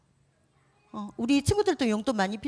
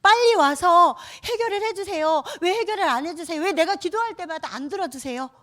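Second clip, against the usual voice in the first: demanding complaint; 7 semitones higher, 3 dB louder than usual. Pretend. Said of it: "이렇게 예수님을 대하지 않나요".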